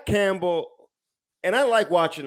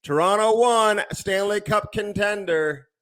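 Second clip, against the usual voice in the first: mocking fans; 6 semitones higher, slower than usual. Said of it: "They're like".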